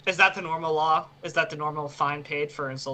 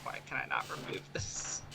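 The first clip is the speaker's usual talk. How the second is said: whispered under the breath; hushed mutter; whispering; 8 semitones lower, 10 dB quieter than usual. Real, not acted.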